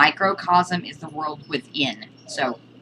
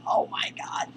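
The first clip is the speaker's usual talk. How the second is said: pained surprise; 6 dB quieter than usual. Real, not acted. Cat jumps on her shoulder.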